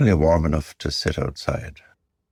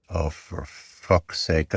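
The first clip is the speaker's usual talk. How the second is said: self-scolding; 4 dB quieter, much slower than usual. Acted. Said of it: "I scold myself".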